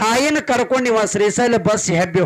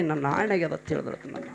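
much softer and lower; hushed repeat; 4 semitones lower, 10 dB quieter than usual. A narrator's reading. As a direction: let the oath sink to a murmur. Teller repeats the oath softly. (ಮೆಲುದನಿಯ ಪುನರಾವರ್ತನೆ)

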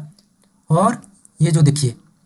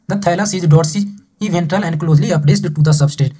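slow, deliberate textbook reading; measured dictation pace; reading aloud; much slower than usual. Acted. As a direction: read it out word by word for the class. Teacher reads textbook line aloud.

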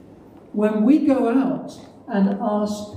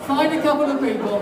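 higher, fast and laughing; laughing urging; 5 semitones higher, much faster than usual. Real, not acted. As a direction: nudge them along with a laugh. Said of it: "Come on".

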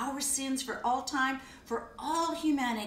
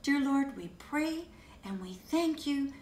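earnest, gentle prayer voice; closing prayer. Acted. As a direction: pray sincerely over the children, unhurried.

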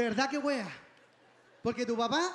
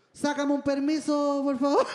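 mock pleading; 5 dB louder than usual. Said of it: "Pone voz de víctima".

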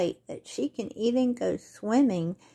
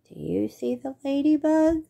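higher, louder eager question; excited; 6 semitones higher, 4 dB louder than usual. Real, not acted. Asking children at story time.

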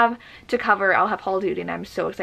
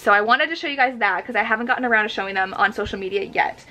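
normal talking voice

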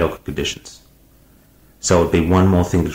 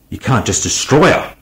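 cried out; 6 semitones higher than usual. A narrator's reading. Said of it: "Weir cried".

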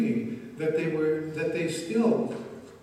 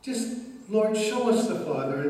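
pleading Philip; 5 semitones higher than usual. Acted. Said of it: "This was Philip".

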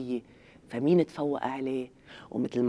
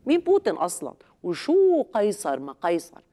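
escalating comedy rant; 2 semitones higher than usual. Acted. Comedian mocks bragging party.

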